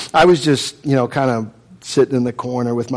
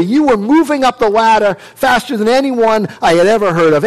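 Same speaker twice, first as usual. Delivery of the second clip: higher, pressing reproach; accusing brother; 5 semitones higher than usual. Acted. Seneca reproaches Saul for throwing it away, higher. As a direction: list his wasted glories at him.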